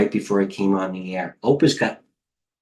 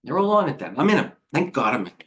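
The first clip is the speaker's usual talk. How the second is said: excited; 5 semitones higher, faster than usual. Real, not acted. Trader telling viewers he owns the rising stocks, excited. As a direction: pitch jumps much higher, thrilled.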